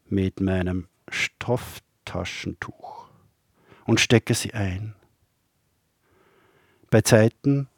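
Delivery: measured poem recital with long pauses; poetry reading. Acted. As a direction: recite poems line by line, letting each phrase stand. Reads own poems aloud.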